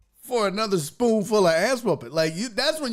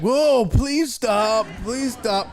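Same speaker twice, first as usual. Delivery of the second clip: mock pleading; 2 semitones higher, 3 dB louder, much slower than usual. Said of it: "they're like".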